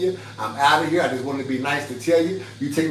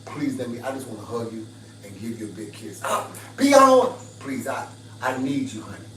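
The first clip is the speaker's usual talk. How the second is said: soft, tender plea to an angry man; soft sweet plea to calm him down; soft pleading; 4 semitones lower, 3 dB quieter than usual. Shown as a demonstration. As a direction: coax him gently, almost begging. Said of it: "Just say".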